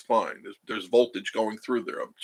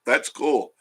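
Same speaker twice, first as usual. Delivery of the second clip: laughing; 4 semitones higher, 5 dB louder than usual. Real, not acted. Laughing reply to viewer.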